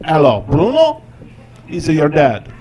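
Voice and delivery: dad calling into the phone, not sure it works; Italian dad accent. Retold or imitated. Dad leaving a voicemail, loud heavy Italian accent. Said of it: "voicemail on my phone that says".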